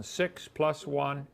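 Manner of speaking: very slow, each word spelled out; slow teacher explanation. Shown as a demonstration. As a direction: lay it out slowly for the class. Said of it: "Now pay attention".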